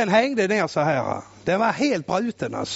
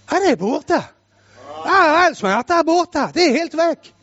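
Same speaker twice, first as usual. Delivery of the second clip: put-on higher, excited boy discovering the pain is gone; amazed boy; 5 semitones higher than usual. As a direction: marvel like a healed boy. (förundrad pojke som märker att smärtan är borta)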